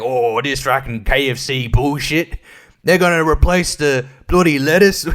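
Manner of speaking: put-on outraged Prime Minister slipping into broad British accent; mock British accent. Comedian voicing the Prime Minister's lettuce rant, mock British accent. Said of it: "It's British all of a sudden".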